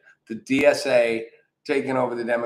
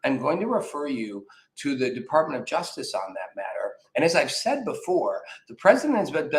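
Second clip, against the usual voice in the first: mimicking a talking point. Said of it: "mostly she'd be like".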